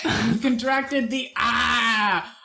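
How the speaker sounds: slow, drawn-out announcement, big on the AH; mock-dramatic proclamation. Announcing a made-up virus to the co-host, mock-dramatic. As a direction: stretch it out like a grave pronouncement.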